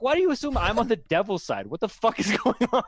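incredulous retort breaking into laughter; laughing through a mock rebuttal; laughing disbelief.

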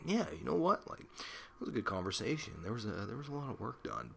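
high, pleased mock voice of self-approval; smug self-satisfied voice. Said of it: "I can walk away and just be like".

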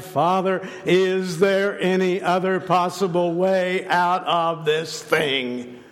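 sustained, imploring appeal that sinks at the end; ardent prayer. Retold or imitated. Jesus praying in the Garden of Gethsemane, ardent plea. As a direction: cry out in earnest prayer. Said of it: "when Jesus cried".

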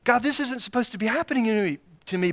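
mild mock panic; whiny believer. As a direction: play the complaining believer. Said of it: "And we say".

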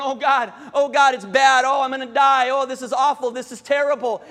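loud, imitated panicking; mock panic. Believers in the boat fearing death, mock panic. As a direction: fret loudly as if running around in a panic. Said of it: "but we're still panicking".

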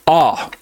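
a clear, open "Ah"; open ah vowel. Shown as a demonstration. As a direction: demonstrate the kamatz sound "Ah". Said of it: "focus on the sound that it makes".

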